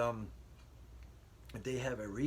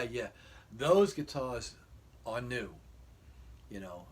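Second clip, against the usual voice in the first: flustered excuse; 3 semitones higher, 9 dB louder, slower than usual. Retold or imitated. Husband excusing himself loudly.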